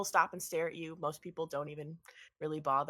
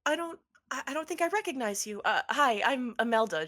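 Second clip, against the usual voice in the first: much higher, hesitant then louder bright greeting; puzzled, then cheerfully introduce yourself; puzzled wife; 7 semitones higher, 5 dB louder than usual. Acted. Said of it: "cocks her head and she says".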